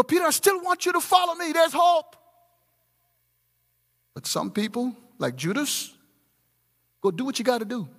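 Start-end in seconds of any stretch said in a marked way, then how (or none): 0.0-2.2 "Peter, I still want you to follow me" lifted high, leaning on "follow"; preached louder. Shown as a demonstration. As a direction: lift "follow" and "hope" higher as an appeal. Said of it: "There's hope in you".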